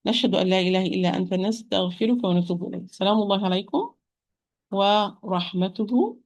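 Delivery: rapid recited closing dua; closing prayer. Acted. Closing supplication.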